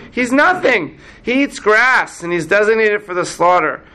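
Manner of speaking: high-pitched, scoffing disbelief; incredulous Moses. Acted. Moses dismissing the calf to God, incredulous. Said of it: "what does the Midrash make Moses say".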